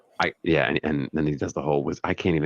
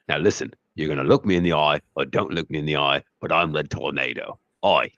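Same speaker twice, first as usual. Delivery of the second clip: Michael Caine impression; 3 semitones lower than usual. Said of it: "Let me try that Michael Caine bit".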